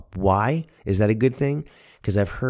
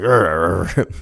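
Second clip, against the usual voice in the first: mock grumbling growls, slightly louder; frustrated growl; 5 dB louder than usual. Grandfather ribbed about losing, comic frustrated growl. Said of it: "So he was getting frustrated".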